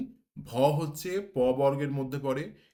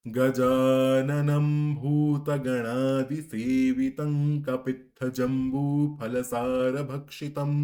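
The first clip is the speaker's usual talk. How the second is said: slow full recitation; much slower than usual. Shown as a demonstration. Teacher reciting the whole verse by the rules, slow. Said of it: "সমগ্র শ্লোকটি একসাথে পড়ি".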